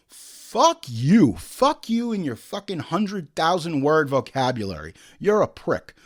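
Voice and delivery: a sudden angry yell of fuck you, then a steady angry rant; angry outburst. Real, not acted. Podcast host cursing out an online movie reviewer, angry. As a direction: swear right back at the reviewer.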